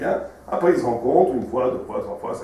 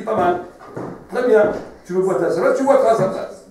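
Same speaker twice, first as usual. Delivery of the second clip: voice of God; 8 semitones higher, 7 dB louder than usual. Acted. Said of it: "Dieu lui dit".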